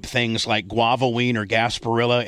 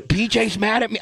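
innocent question; 7 semitones higher than usual. Retold or imitated. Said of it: "I didn't even give a fuck about it".

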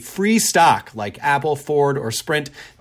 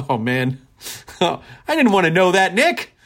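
laughing; 3 semitones higher than usual. Real, not acted. Laughs at grim blackout news.

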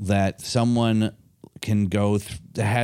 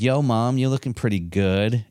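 sleazy flirting; 3 semitones higher than usual. Retold or imitated. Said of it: "And then he was like".

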